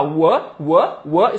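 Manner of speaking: "wa" as short WUH; short repeated "wa", said WUH; shared first sound. Shown as a demonstration. Teacher showing "were" starts like "was", "wa" as "wuh". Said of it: "igual o was".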